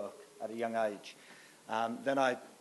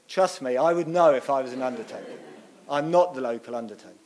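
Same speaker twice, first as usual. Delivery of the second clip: faster, louder mock indignation; protesting; 7 dB louder than usual. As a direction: insist with amused exasperation. He protests to the lady.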